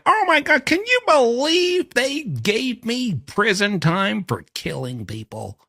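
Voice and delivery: very high, loud squeal of disbelief; hammed-up indignant whine, coming down at the end; mock complaining. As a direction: imitate an outraged daughter in squeaky falsetto. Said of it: "and then complain like".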